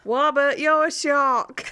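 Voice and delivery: loud, slow "Wobbit", R turned to W; Dave. Retold or imitated. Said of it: "he can't say his R's".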